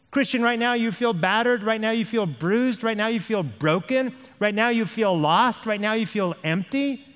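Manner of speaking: high, insistent repeated phrases; urgent, piled-up empathy. Acted. Preacher speaking to battered Christian, high and insistent.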